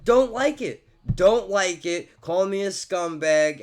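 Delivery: defiant. Real, not acted. Vlogger taunts critics who dislike him, loud and defiant. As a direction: throw it at the haters.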